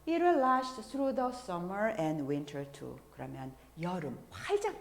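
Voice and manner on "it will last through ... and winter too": very slow, deliberate English line; slow lyric reading. Shown as a demonstration. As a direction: read it out word by word. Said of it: "이렇게 늘 푸른".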